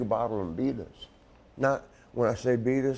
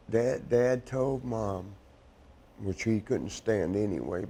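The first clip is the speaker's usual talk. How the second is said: blubbering. Real, not acted. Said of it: "I'm sorry I'm crying".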